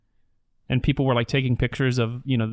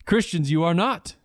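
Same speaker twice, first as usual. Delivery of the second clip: all caps reading; 2 semitones higher than usual. Retold or imitated. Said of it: "we're switched to caps mode".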